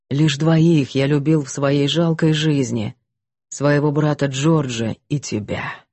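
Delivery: low, somber confessing voice; a guilty man baring his soul; repentant man. Acted. Гэвин о любви. (кающийся мужчина, низкий голос)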